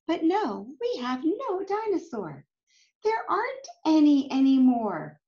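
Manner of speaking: put-on lively storybook read-aloud for kids; reading to children. A narrator's reading. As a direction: read it like a picture book to a class. Reading picture book aloud.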